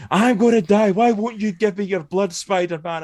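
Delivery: high-pitched hammed-up plea; mock desperate begging. Mocking Harry begging Spider-Man for blood, high mock desperation. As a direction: whine it high, like a melodramatic dying man.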